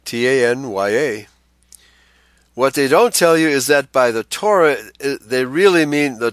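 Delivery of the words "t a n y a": T A N Y A spelled letter by letter; spelling out a word. Shown as a demonstration. Host spells the name for listeners, letter by letter. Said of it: "they say the Tanya".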